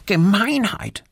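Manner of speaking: high squirrel voice, grumbled; a little squirrel grumbling to himself; Erik squirrel, muttering. Acted. Erik mutters about the littered clearing. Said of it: "murmelt Erik".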